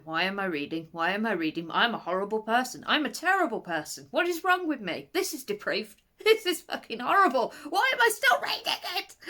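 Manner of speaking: a hammed-up guilty rant; mock guilt. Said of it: "you're sitting there going".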